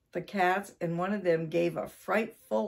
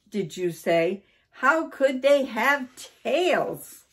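louder, higher disbelieving question; astonished; 6 semitones higher, 5 dB louder than usual. A narrator's reading. Wife questions husband about tailed burglars, loud astonishment. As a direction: question it slowly, punching the key words.

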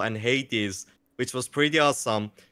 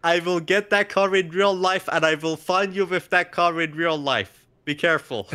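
mock threat; 3 semitones higher than usual. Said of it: "It's a personal threat from the speaker".

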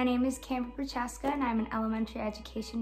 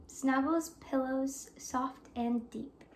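soft; 5 dB quieter, slower than usual. Acted. Bedtime ending of story.

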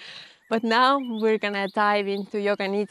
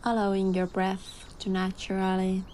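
calm voice. Real, not acted. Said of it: "I'm gonna dive into my calm voice now".

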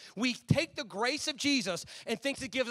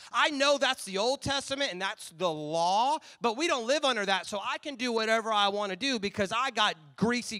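mock smug excuse; 4 dB louder than usual. Pastor mocking a self-justifying believer, smug and louder. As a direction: brush the law off like a self-satisfied hypocrite.

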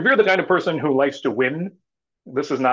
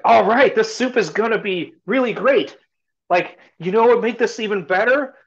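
higher, louder salesman pitch; hyped stranger; 8 semitones higher, 4 dB louder than usual. Retold or imitated. Stranger talking up his soup to watching villagers. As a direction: sell the soup to the crowd.

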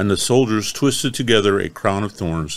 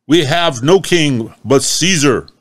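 defiant reply; 6 semitones higher, 5 dB louder than usual. Acted. Chief priest answering defiantly.

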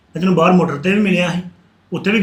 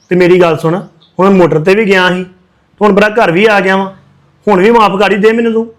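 raised, urgent begging; loud pleading; 6 dB louder than usual. Acted. To Joban after being turned away, loud desperate pleading. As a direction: push hard for forgiveness, louder and louder. Brother begging forgiveness in quarrel.

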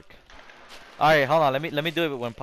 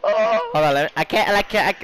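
helium voice; 4 semitones higher, 3 dB louder than usual. Real, not acted. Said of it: "It's still there".

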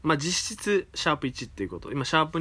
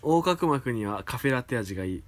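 drawn out like after a few drinks; tipsy; slower than usual. Real, not acted. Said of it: "いい感じに酔っ払ってますね".

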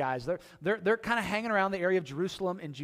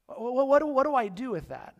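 louder, higher baffled "what, what, what"; bewildered; 6 semitones higher, 6 dB louder than usual. Retold or imitated. Peter stunned by the vision, loud baffled sputter. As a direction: sputter in confusion. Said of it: "Peter's gotta be like".

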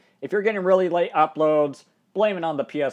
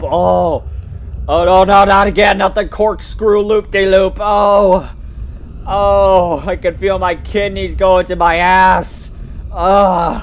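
screaming; 4 semitones higher, 7 dB louder, slower than usual. Real, not acted. Screaming on the roller coaster.

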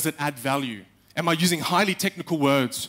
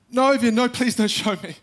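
pleading refusal; 8 semitones higher, 3 dB louder than usual. Retold or imitated. Friend begs not to see video.

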